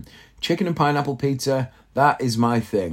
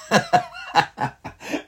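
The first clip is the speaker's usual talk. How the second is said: real laugh; 8 semitones higher than usual. Real, not acted. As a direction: burst of high, voiceless laughter. Laughs at his own rant.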